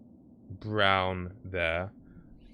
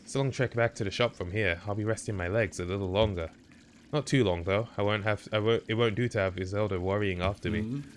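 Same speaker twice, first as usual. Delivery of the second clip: mock Canadian accent. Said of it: "Crying at your Canadian accent".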